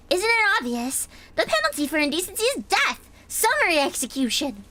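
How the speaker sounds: high, strict enforcer voice; stern zealous girl. Acted. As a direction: declare it with zealous certainty. Reads a stern character.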